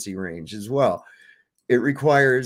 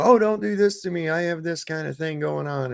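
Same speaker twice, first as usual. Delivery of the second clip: mock whiny voice; 6 semitones higher than usual. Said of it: "And they go".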